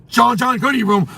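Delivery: a hint of a strict dad; lightly voiced stern father. Dad sending John John to his room, light stern. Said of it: "if his dad says".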